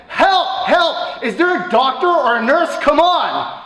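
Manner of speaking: loud, high cries for help; calling for help. Retold or imitated. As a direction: call out to the crowd for a doctor. Calling out for a doctor.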